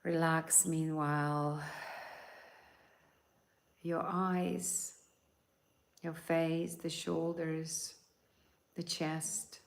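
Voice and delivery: calm guiding voice, unhurried; guided meditation. Acted. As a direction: lead them gently into relaxation.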